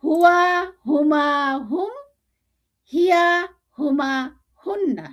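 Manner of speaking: separate, emphatic words for students to repeat; drill recitation. Shown as a demonstration. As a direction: recite like a teacher leading a drill. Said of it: "যেভাবে আমি বলছি আপনারা সেভাবে practice করবেন".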